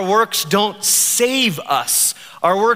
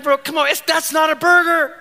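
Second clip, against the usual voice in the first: laughing protest; 9 semitones higher than usual. Pretend. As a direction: scoff through a laugh at a silly answer. Friend's absurd burger answer.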